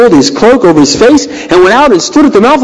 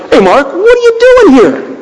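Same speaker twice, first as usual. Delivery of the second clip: voice of God; 13 semitones higher than usual. Retold or imitated. God's voice in a dialogue.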